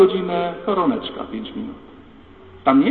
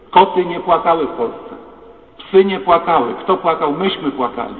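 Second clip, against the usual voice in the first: emphatic preaching; 6 dB louder than usual. Real, not acted. Preacher building emphatic point.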